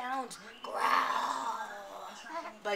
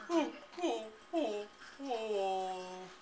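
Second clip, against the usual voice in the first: blubbering; 3 semitones lower, 4 dB quieter, slower than usual. Acted. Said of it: "blubbers on".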